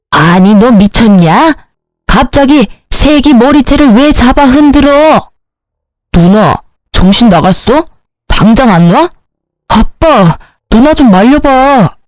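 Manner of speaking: indignant family-fight protest, pitch jumping up; acted exasperated scolding; angry outburst. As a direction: demand that it stop, rising into appeals. Brother yells during hair-pulling fight.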